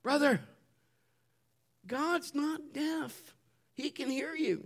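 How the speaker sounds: put-on high, slow little-boy voice; small high voice, spacing out the words; boy's reproach. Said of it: "And Tommy says".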